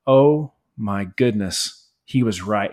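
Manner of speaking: slow, low, hushed dawning guilt; stunned realization. Retold or imitated. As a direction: let it sink in slowly like Peter finally understanding. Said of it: "He was probably like".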